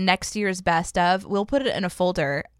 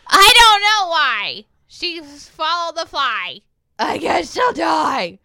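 slow, loud singsong rhyme; loud mic check; 9 semitones higher, 7 dB louder, slower than usual. Shown as a demonstration. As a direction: belt it out for the mic. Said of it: "give me a loud check".

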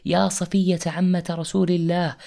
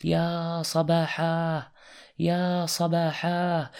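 calling out; 3 semitones higher, much slower than usual. Acted. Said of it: "فهتف".

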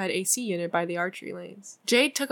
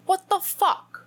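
high, put-on British accent; 11 semitones higher, slower than usual. Jade to Kit in a British accent. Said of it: "I can't say what the fuck in a British accent".

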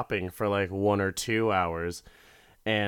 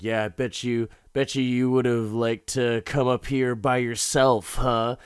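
mock snide jealous husband; passive-aggressive; 4 dB louder than usual. Husband jabs at wife about the trip, passive-aggressive. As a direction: needle her with a pointed accusation, a little raised. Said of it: "it never loses steam in the passive-aggressive nonsense".

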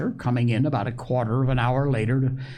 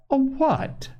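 astonished question. Acted. Doctor astonished by request.

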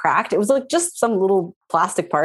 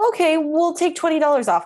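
high customer service voice; 9 semitones higher than usual. Retold or imitated. Phone agent voiced in story.

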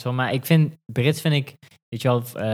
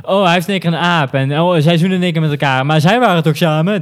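quick, raised mocking retelling; 4 semitones higher, 5 dB louder, faster than usual. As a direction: send up the silly plots. Mocking the show's plots.

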